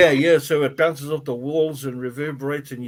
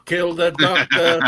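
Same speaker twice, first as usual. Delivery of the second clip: slow robotic chant; 3 semitones higher, 6 dB louder, slower than usual. Pretend. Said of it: "beat on your chest and go".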